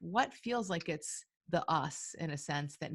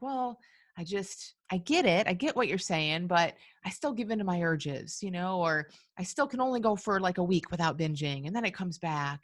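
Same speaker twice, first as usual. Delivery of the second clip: mock protest; 6 dB louder than usual. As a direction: push back like a struggling client, voice raised. Acting out a struggling listener's objection.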